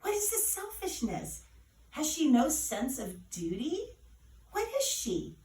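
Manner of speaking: mother complaining to the godmother in despair; despairing complaint. A narrator's reading. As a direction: throw up your hands in despair. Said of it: "In despair, Nana complained".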